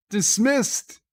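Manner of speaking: high, loud barked command; captain's shout. Retold or imitated. Sisko sending Jake and Nog away, high loud shout. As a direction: bark it like an angry captain ending the meeting. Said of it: "He's like".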